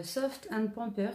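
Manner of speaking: slow English brand name in a heavy French accent; bad English accent. Real, not acted. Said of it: "mon accent est nul à chier".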